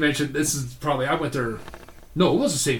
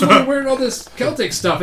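mock woman's voice; 11 semitones higher, 7 dB louder than usual. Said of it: "And she goes".

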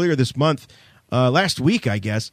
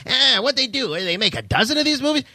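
higher mock host voice, scoffing; mock-incredulous host voice, higher; mocking talk-show host; 8 semitones higher than usual. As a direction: lampoon a dismissive interviewer, pitched up.

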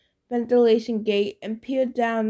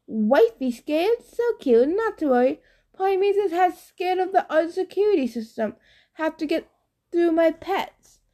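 higher, cooing giant voice; boastful Cyclops; 6 semitones higher than usual. Acted. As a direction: coo like a smug dim giant.

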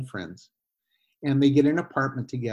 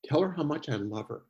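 gentle voice of Jesus; 5 dB quieter than usual. Retold or imitated. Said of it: "He said".

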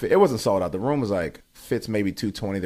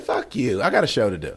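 own-pitch retort, not raised; matter-of-fact comeback. Retold or imitated. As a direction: answer back in your normal register. Comic answers heckler, own voice.

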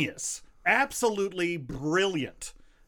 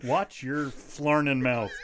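put-on old prospector voice; slower than usual. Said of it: "old-timey voice in my head".

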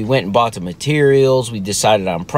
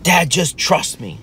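higher, slower imitated plea; insistent plea; 6 semitones higher, slower than usual. Son asking doubting dad for trust, slow imitated plea. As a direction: draw it out as a kid imploring Dad.

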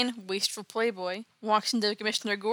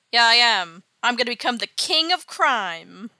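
boastful villain; 7 dB louder than usual. Retold or imitated. Villain boasts of evil plan.

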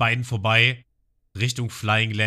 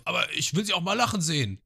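Genzo bittet; 10 semitones higher than usual. Retold or imitated. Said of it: "und er so".

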